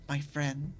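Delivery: low, soft little gremlin croak on "My friend.". Shown as a demonstration. Streamer demos his gremlin voice to chat, low and soft. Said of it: "It hits that gremlin tone".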